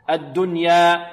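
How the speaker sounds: الدنيا with the final alef held two counts. Shown as a demonstration. Quran teacher shows students the stop, الدنيا ending on a two-count alef. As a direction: hold the end of الدنيا for two beats. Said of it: "نقف عليها بمقدار حركتين".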